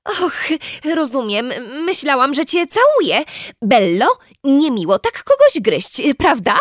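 gently chiding mother, lightly voiced; a hint of a soothing mother; mild mum voice. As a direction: talk to the baby like a patient mum. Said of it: "powiedziała mama".

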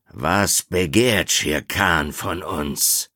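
slow and coldly demanding; restrained anger. Acted. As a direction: ask slowly, anger held in check. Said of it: "seine Augen funkelten vor Zorn". (langsam, kalt und beherrscht)

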